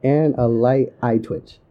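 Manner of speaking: flat drug ad disclaimer read; boring droning parody. Pretend. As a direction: drone the side effects in a flat voice. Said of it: "such a low monotone voice".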